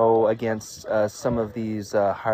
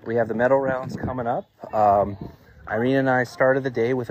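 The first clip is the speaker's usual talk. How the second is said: out of breath; 3 semitones higher, 4 dB louder than usual. Real, not acted. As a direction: still winded, breathing hard. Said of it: "sorry, I'm out of breath here".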